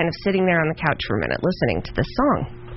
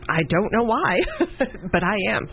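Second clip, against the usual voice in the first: laughing through it; 4 semitones higher than usual. Retold or imitated. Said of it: "I was like".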